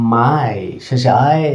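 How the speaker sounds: "মাই" stretched slowly on its "আই" ending; drawn-out "আই" ending. Shown as a demonstration. Teacher showing learners the final Y sound, drawn-out "আই". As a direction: draw out the "আই" at the end of "মাই". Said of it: "সেটা আই sound হয়ে থাকে".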